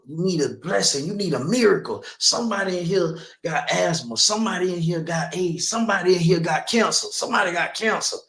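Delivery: lightly voiced pastor working the crowd; preacher calling out. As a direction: call it out over the pews like a pastor.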